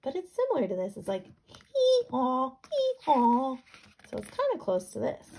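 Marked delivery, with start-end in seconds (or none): 1.2-3.6 high cracking bray, louder; donkey impression. Shown as a demonstration. Teacher showing what donkeys sound like, a real bray. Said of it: "I don't know if I do a good donkey".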